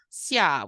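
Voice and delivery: "xia" in the Mandarin second tone, rising. Shown as a demonstration. Teacher showing the learner xia, second tone rising. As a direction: let "xia" climb like a second tone. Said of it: "which is the second tone".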